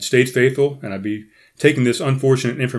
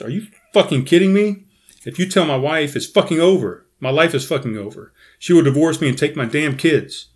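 higher, angry hiss through gritted teeth; furious through clenched teeth; 5 semitones higher, 3 dB louder than usual. Retold or imitated. Husband confronting his wife's coworker in the car, furious through clenched teeth. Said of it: "with clenched teeth and fist, I asked".

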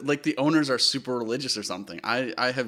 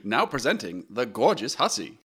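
1940s radio voice. Pretend. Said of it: "can you say this in a nineteen forties radio voice".

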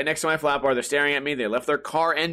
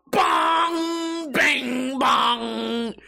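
imitated metal bong; 7 semitones higher, much slower than usual. Skateboard truck hitting metal.

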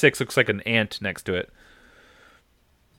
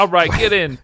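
higher, louder goofy beast voice; whale voice; 9 semitones higher, 9 dB louder than usual. Retold or imitated. The whale invites the ship inside, loud and goofy. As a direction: give the giant creature a loud, jokey voice. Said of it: "You gotta give him a voice".

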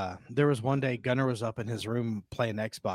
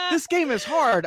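son whining; 13 semitones higher, 3 dB louder than usual. Retold or imitated.

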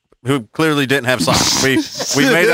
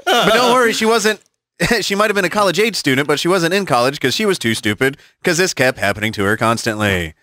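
news reporter; 3 semitones higher than usual. Pretend. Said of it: "Back to you, Tom".

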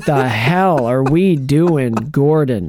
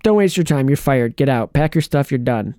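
a lightly voiced exasperated boss; mock dismissal; mock firing Alfred; 3 semitones lower than usual. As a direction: fire him on the spot, half-joking. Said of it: "I was waiting for him to be like".

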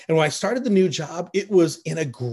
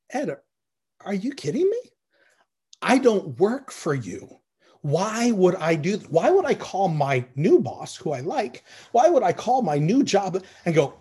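higher and louder, an incredulous mock rebuke; indignant retort; 3 semitones higher, 3 dB louder than usual. Preacher imagining telling his old boss off, indignant and incredulous. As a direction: tell the old boss off, as if he can't believe the nerve.

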